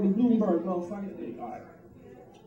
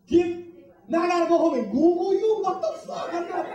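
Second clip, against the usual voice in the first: exasperated rant; 6 semitones higher than usual. Retold or imitated. Ranting at the FBI.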